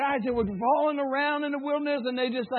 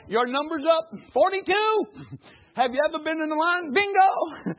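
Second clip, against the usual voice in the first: mock number caller; 5 semitones higher, 3 dB louder than usual. Mock calling a ticket number.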